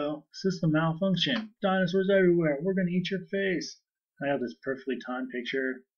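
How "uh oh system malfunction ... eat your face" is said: high, loud mock ride-gone-wrong alarm; malfunction announcement. Retelling a ride going wrong to co-host, mock alarm. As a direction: blare out a pretend dinosaur emergency. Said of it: "all of a sudden it's like".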